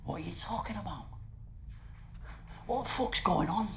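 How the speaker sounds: hushed, halting disbelief; quiet, wounded questioning; stunned hurt. Acted. Stunned guest after live accusation.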